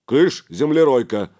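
loud, good-natured shooing; jovial brush-off. A narrator's reading. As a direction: shoo them off with rough good humour. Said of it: "добродушно проговорил Гораст".

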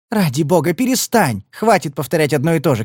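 fed up, cut him off; exasperated. Acted. Marti tells Padler to stop repeating himself.

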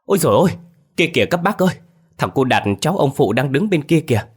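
high, loud alarmed cry; a villager spotting the lost boy, crying out loud. A narrator's reading. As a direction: shout it out in sudden alarm. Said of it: "chợt rú lên".

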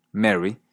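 "Mary" as merry, short e; unchanged vowel. Shown as a demonstration. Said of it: "mantiene su pronunciación".

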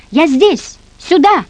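put-on child calling for rescue. A narrator's reading. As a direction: call out to those at the door. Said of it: "перешёл на осмысленное".

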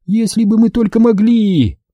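high, groaning lament; moaning. A narrator's reading. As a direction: moan it out in despair. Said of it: "простонала Астри".

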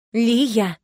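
mother checking her daughter; reproachful. Acted. Mother reining in daughter Liya, reproachful. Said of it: "укоризненно одёрнула её мама".

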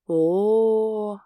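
a loud, snide "oh". Acted. Yana mocks Ilya's new nickname, snidely. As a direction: tease him with a sly exclamation. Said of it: "ехидно выдаёт Яна".

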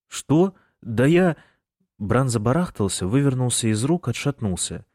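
high, loud flustered excuses; panicked. A narrator's reading. Bran, caught by Michael, panics and stammers loudly. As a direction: babble in a panic.

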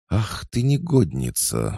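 high outraged scolding; indignant. A narrator's reading. Lucy scolding Oksana on Tolik's bed. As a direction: scold her, shocked. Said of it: "возмутилась Игнатьева".

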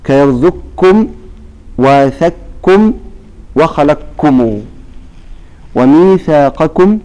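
slow, drawn-out Quranic chanting of the verse words; slow recitation. Shown as a demonstration. Teacher reciting example words slowly for students. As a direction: recite each word slowly as tajweed examples. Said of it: "فقال".

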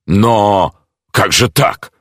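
can't believe what he sees; genuine astonishment. A narrator's reading. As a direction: jeweller stunned by the sealed flat. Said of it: "неподдельное изумление".

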